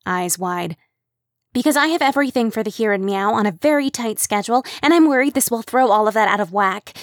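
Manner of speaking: fretful, wound-up Kim; anxious organizer. Acted.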